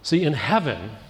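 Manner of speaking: steady rhythmic sermon cadence; sermon litany; preaching. Acted. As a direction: build the heaven list like a preacher.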